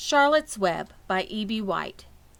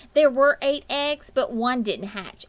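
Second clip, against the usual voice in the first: put-on slow, eager child voice; a hint of a little girl explaining; lightly voiced girl; 6 semitones higher, 7 dB louder than usual. A narrator's reading. Fern explaining the eggs to her parents, slowly.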